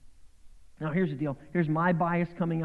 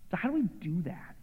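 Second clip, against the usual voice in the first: whisper; 3 semitones higher, 3 dB quieter than usual. Real, not acted. Whispered rhetorical question to congregation.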